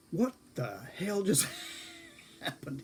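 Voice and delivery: shocked driver. Retold or imitated. Driver shocked after crash.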